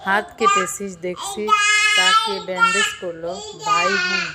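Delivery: high, loud teasing sing-song; mock-sweet needling. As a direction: tease her about the bandage. Tania teasing.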